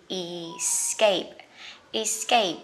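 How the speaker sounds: escape with stress on the second syllable, iss-KAPE; careful English pronunciation. Shown as a demonstration. Teacher modelling escape for learners, deliberate and clear. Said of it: "sẽ là từ gì?".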